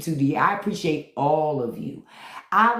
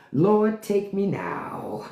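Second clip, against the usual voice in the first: hammed-up plea to be taken; mock dying prayer; 3 semitones higher, much slower than usual.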